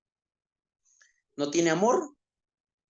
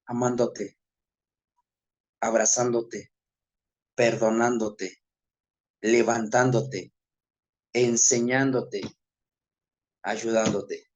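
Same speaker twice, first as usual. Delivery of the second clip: lower, slow, tender answer from God; gentle voice of God; 3 semitones lower, slower than usual. Retold or imitated. (voz de Dios, suave y pausada, un poco más grave)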